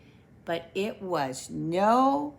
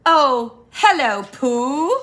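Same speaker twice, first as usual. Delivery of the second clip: Rabbit greeting; 4 semitones higher, 7 dB louder than usual. Acted.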